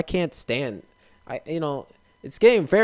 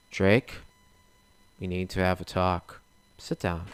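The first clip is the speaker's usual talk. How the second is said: stern parent; 6 semitones lower, 7 dB quieter than usual. Pretend. Family confronts Drake in skit.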